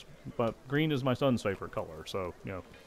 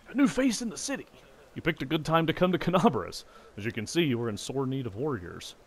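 hearty dwarf; 5 semitones higher than usual. Acted. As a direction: greet the newcomer heartily. Dwarf smith greets player.

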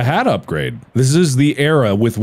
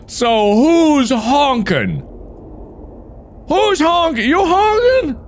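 climbs higher and higher into a squeak; each who's honkin' shriller than the last; squeaky rising accusation; slower than usual. Acted. Woodcutter accuses the tree, climbing to a squeak.

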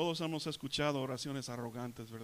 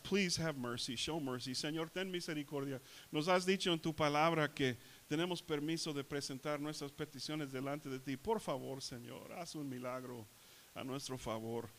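softer, humble plea for mercy; humble prayer; 5 dB quieter than usual. Shown as a demonstration. Preacher models praying to Jesus for a miracle, humbly. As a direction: pray humbly, letting the voice sink softer. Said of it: "let's come with a little humility".

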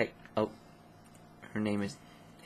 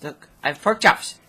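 1 excited show-off; 5 semitones higher, 6 dB louder than usual. Real, not acted. Excited showing off pork chops.

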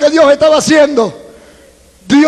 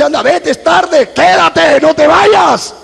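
devil tempting; 3 semitones higher, slower than usual. Retold or imitated. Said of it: "El diablo dice".

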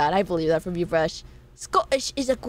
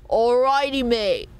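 put-on Australian accent; slower than usual. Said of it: "two Apex character".

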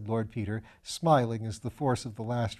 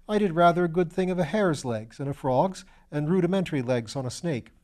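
put-on higher, bright-eyed young medical student voice; eager young student; 4 semitones higher than usual. Young Piggott protesting to Lord Peter, higher eager student voice. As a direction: play the eager, slightly foolish young student.

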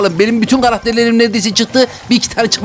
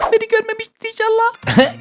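anxious hope; 12 semitones higher, 3 dB quieter than usual. Real, not acted. Hiding, hoping not to be seen.

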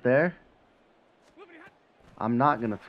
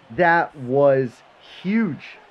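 excited; 4 semitones higher, 8 dB louder, much slower than usual. Real, not acted. Reacting to the big sack.

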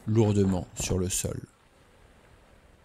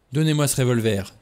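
commanding, a little louder; mild imperious tone; 3 semitones higher, 4 dB louder than usual. Acted. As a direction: order her to hand it over. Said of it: "dit-il d'un ton impérieux".

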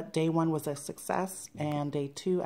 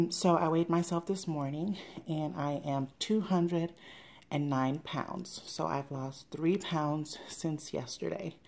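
out of breath, slow; breathless. Real, not acted. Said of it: "I'm a little out of breath 'cause I was just running up the stairs".

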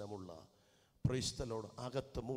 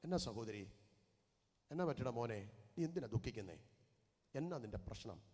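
caring question; 3 semitones lower, 3 dB quieter than usual. Shown as a demonstration. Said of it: "പരസ്പരം ഒന്ന് ചോദിക്കണം".

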